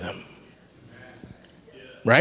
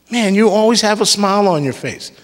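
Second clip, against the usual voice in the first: imitating an admirer, pitched up; lightly acted, higher-voiced praise; gushing compliment; 6 semitones higher than usual. Preacher acting out someone praising a smile, high and gushing. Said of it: "they start complimenting you".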